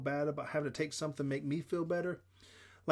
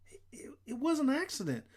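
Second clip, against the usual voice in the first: shouted protest; 11 semitones higher than usual. A narrator's reading. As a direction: cry out your defence in a high voice. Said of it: "I shouted".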